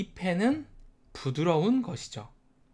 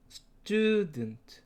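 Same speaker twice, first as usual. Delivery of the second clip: student raised on stud; stress on stud; 5 semitones higher than usual. Shown as a demonstration. Teacher models stress in the drill. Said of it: "이렇게 발음해주면".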